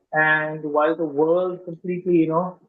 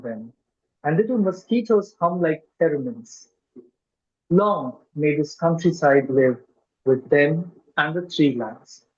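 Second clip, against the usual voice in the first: measured poem reading with deliberate pauses; poetry recital. Acted. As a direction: recite it phrase by phrase, weighting key words. Reads own poem aloud.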